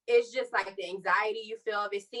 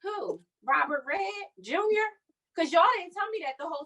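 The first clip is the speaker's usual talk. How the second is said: incredulous; 9 semitones higher than usual. Real, not acted. Mock disbelief at the nurses.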